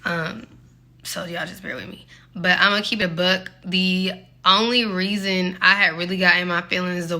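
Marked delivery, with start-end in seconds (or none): 0.0-2.1 breathless, words coming out hard; out of breath. Real, not acted. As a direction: talk while still catching breath. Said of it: "I'm a little out of breath".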